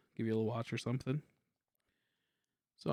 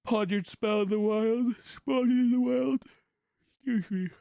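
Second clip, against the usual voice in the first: high-pitched; 10 semitones higher, 7 dB louder than usual. Real, not acted. Sudden high loud stretch.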